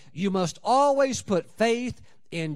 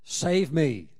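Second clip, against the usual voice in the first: urgent plea; 5 dB louder, much slower than usual. Pretend.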